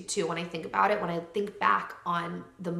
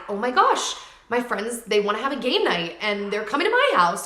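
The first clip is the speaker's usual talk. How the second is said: gushing excitement; 6 dB louder than usual. Retold or imitated. Gushing to viewers about friends' game night, excited. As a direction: bubble over like a thrilled girl.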